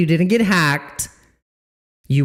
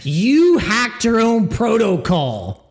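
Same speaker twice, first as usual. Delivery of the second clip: scornful accusation; 3 semitones higher than usual. Real, not acted. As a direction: lean on each word, accusing. Accusing the project.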